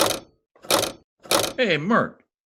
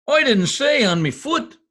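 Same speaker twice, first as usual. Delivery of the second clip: pained shout; 8 semitones higher, 5 dB louder than usual. Acted. Piano dropped on his foot.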